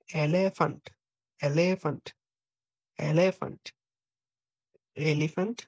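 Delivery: এলিফ্যান্ট repeated with German E; German pronunciation demo. Shown as a demonstration. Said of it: "ই কে তারা বলে এ". (এলিফ্যান্ট German উচ্চারণে)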